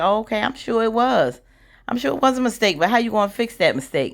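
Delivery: hammed-up fake politeness, sing-song and high; mock sweetness. Recapping the white woman's fake-polite reply, mock sugary and high.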